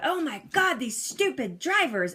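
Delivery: mild mock rant, starting high; retold ranting. Driver ranting alone in the car, lightly exasperated. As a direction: imitate griping at other drivers. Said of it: "you know, ranting about".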